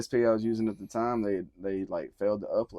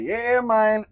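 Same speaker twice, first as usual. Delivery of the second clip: high, loud, hyped-up reaction; retold excitement; 12 semitones higher, 7 dB louder than usual. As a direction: call it out high, reliving the hype. Retold reaction to hearing beat.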